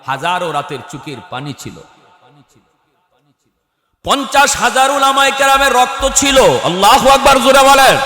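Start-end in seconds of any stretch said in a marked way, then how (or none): 4.0-8.0 high, loud rallying cry; thundering sermon peak at high pitch; full-force preaching. Real, not acted. Preacher rouses the crowd.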